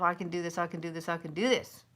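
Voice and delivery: quick, even self-encouragement; self pep talk. Shown as a demonstration. Coaching viewers to tell themselves, quick pep talk. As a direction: repeat it briskly like a mantra. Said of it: "Tell yourself".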